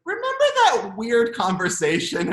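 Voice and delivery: teasing recall. Retold or imitated. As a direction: nudge the memory. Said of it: "it was like".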